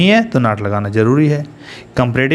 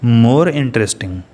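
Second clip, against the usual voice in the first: slow dictation; much slower than usual. Shown as a demonstration. Teacher dictating comparative form.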